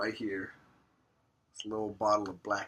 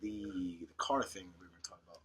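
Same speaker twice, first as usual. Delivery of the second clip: whisper; 6 dB quieter than usual. Real, not acted. Cohost whispers topic prompt.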